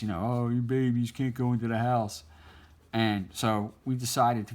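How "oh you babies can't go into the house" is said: lightly voiced teasing older brother; a hint of a sneering big brother; mocking taunt. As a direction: poke fun at scared little kids. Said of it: "he would make fun of us".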